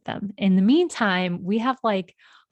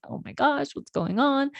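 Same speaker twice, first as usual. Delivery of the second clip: higher voice imitating anxious girls; worried daughters; 7 semitones higher than usual. Girls react to their brother being lost, lightly imitated worry. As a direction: lightly voice worried kids, pitched up.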